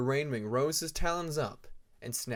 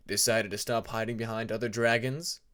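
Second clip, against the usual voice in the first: playful taunt; 4 dB louder than usual. Acted. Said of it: "a playful tone masking the anger".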